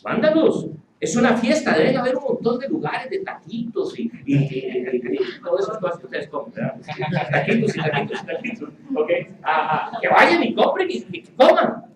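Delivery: mock disciples' complaint. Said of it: "ellos estarían pensando".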